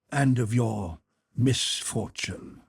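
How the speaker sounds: slow, set "misfortune" apart with weight; emphasis on misfortune. A narrator's reading. Stranger continuing to Pierre, weighty stress on "misfortune". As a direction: lean deliberately on the final word "misfortune". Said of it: "He seemed to emphasize the last word".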